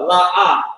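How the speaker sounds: LA, AH with the stress on a long AH; accented syllables. Shown as a demonstration. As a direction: land hard on a drawn-out AH. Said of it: "we got accents on ours".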